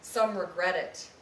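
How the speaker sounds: measured, deliberate poetry reading with pauses; poem reading. Acted. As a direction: read it like a poet at a live reading. Reads a second poem.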